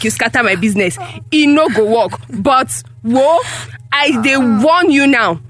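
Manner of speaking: stern, emphatic scolding; cross, insistent telling-off; angry warning. Acted. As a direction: lay down a warning to your child. Mother berates and warns daughter.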